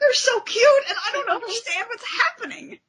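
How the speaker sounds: high, laughing, near tears over cuteness; laughing gush. Real, not acted. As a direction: melt into giddy laughter. Gushing over cute comic couple.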